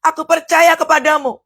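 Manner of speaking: earnest demo of a believing prayer; right-way fervent prayer. Shown as a demonstration. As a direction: pray it as the model of true faith. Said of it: "Yang benar itu adalah".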